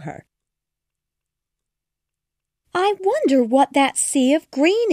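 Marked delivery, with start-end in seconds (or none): 2.7-4.9 put-on higher, wondering girl's voice; puzzled, peering down at the leaves; curious Alice. A narrator's reading. Alice wondering at the green below, higher voice. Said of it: "asked Alice".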